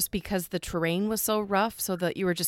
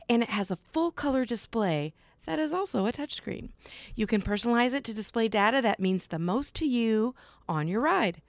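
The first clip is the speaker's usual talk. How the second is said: polished podcast sponsor read; measured, presenterly host endorsement; 3 semitones higher than usual. Acted. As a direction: read it as a scripted product promo, phrase by phrase.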